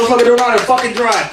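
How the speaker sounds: fast, a hint of Tiger Woods. Comic doing Tiger Woods after the crash, a light impression. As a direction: rattle it off angrily. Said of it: "this is my impression of Tiger Woods".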